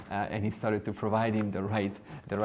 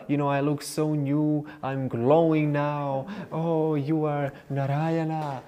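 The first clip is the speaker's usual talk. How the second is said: higher, louder, slow and marvelling; overjoyed customer praising the barber; amazed delight; 6 semitones higher, 3 dB louder, slower than usual. Acted. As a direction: gush over the barber in wonder.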